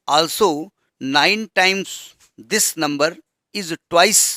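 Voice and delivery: very slow, word-by-word reading of the problem; dictating the question. Shown as a demonstration. Teacher dictating the word problem to the class, very slow. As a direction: read it out slowly so students can copy.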